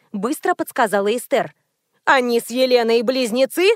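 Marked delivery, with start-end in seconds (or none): none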